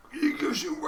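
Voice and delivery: high startled yelp; monster cry. Acted. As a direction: cry out like a waking goblin. Goblin cry when waking.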